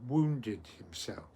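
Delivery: deliberate phrase-by-phrase recital with long pauses; very slowly. Shown as a demonstration. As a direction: teach the verse slowly, piece by piece. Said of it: "I'll say it very slowly".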